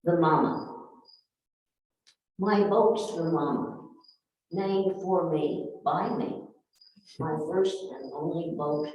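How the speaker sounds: measured verse with pauses between phrases; poem reading. Acted. Poet tells of her old boat, measured poem reading. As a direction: recite it phrase by phrase.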